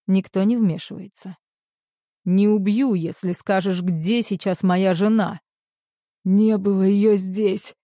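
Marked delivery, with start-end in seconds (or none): 2.2-5.4 furious threat. Acted. Threatening kidnapper while beating him. 6.3-7.7 hoarse, slow, choking on blood; bloody mouth. A narrator's reading. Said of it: "хрипит скрынник, захлёбываясь кровью".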